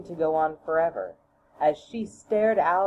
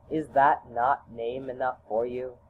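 lower, lightly voiced father; calm fatherly chiding, pitched down; father's voice; 3 semitones lower than usual. Father gently chides his son, a lightly lower voice. Father's answer, same as mother's.

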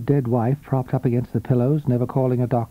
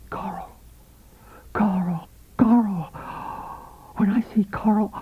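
a touch higher, longing call; mild eager calling; 7 semitones higher than usual. A narrator's reading. Husband alone, eagerly calling out his lover's name. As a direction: call her name in rising hope.

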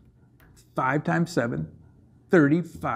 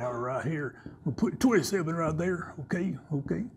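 soft unvoiced okay, okay; whisper; 8 dB quieter than usual. Real, not acted. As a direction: breathe it out as a hushed aside. Whispered aside.

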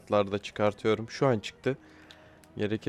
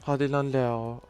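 "Hadi lan Leo" pushed higher and more urgently; higher, emphatic "Hadi lan Leo"; urgent urging; 4 semitones higher, 4 dB louder, slower than usual. Real, not acted. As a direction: urge Leo on, more insistent. Urging player, repeated.

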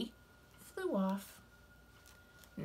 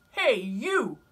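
high, loud, grumpy bug; grouchy ladybug voice; 3 semitones higher, 8 dB louder than usual. Acted. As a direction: bark the challenge up high. Ladybug challenges sparrow.

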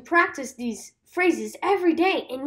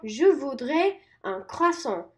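slow model. Shown as a demonstration. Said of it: "You can say".

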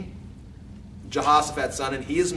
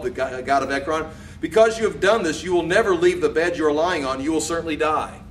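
prophetic pronouncement; 3 semitones higher, 3 dB louder than usual. Acted. Reads God's sentence on the king.

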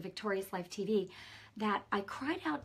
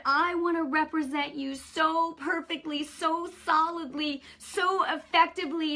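crying out to God; 7 semitones higher, 5 dB louder than usual. Retold or imitated. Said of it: "I was literally crying out to God".

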